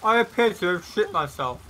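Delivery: laughing. Real, not acted. Joking after character falls.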